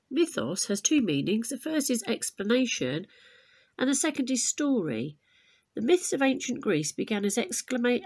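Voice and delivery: lively storybook reading to a class; story narration. A narrator's reading. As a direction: read it like a myth for children, clear and bright. Teacher reads myth aloud to class.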